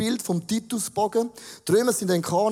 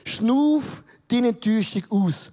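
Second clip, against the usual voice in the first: slow breathing-out demo; 2 semitones higher than usual. Shown as a demonstration. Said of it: "ganz einfaches Beispiel".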